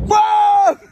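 high, loud shocked whoa. Real, not acted. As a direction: blurt it out in shock. Shocked at three thousand.

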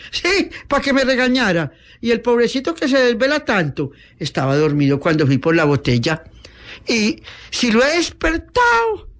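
high, whiny self-defense; acted whimpering excuse; tearful protest. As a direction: plead back like a scolded girl. Scolded girl tearfully defends herself.

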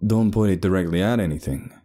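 firm cautioning instruction; warning. Acted. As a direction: warn a novice holding a weapon. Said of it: "Sebastian warned".

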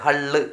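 ഹള്ള് said with a clear short a, like hall; ഹള്ള് pronounced hall-style; hull read as hall. Shown as a demonstration. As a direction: say ഹള്ള് with an open a, not hull. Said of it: "ഇല്ല, ഹള്ളെന്ന് വായിക്കുക".

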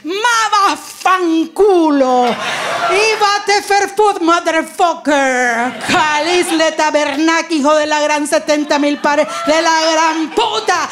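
slow, heated swearing in many tongues; multilingual cursing. Retold or imitated. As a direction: hurl insults in four languages. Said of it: "I answered to him in the four languages".

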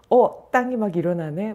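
lightly acted tipsy man, loud; drunk talking to a pole. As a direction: play a drunk waving off a lamppost. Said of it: "막 이러잖아요".

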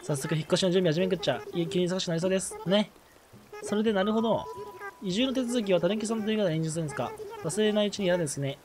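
a lightly voiced genteel girl, reading her lines; polite young lady. Reading the villager Doremi's polite greeting, lightly voiced lady. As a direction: read it like a refined little miss. Reads villager dialogue aloud.

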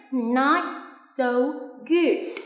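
"good" with a clear final t; final t sounded. Shown as a demonstration. Teacher showing students the final consonant, crisp t. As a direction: end "good" on a crisp released t. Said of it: "Lưu ý âm cuối nha".

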